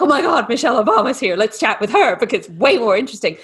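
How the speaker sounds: quick, lightly excited fan reaction; mildly starstruck, quickened pace; acted excitement. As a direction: gush quickly as if a star just arrived. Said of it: "you would be all excited".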